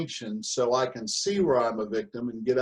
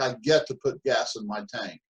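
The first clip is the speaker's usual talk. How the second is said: grateful get to; 3 semitones lower than usual. Shown as a demonstration. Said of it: "difference between those two thought processes".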